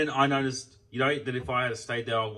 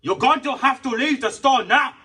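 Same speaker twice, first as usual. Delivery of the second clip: high, loud and slow mock order to leave; pitched-up slow imitation telling him to leave; mocking the worker; 14 dB louder, slower than usual. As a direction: draw out the worker's order to get out, hammed-up. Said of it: "And he's like".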